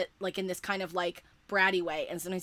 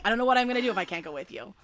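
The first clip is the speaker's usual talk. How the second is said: desperate rush; 2 semitones higher, 5 dB louder, much faster than usual. Retold or imitated. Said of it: "and it's like".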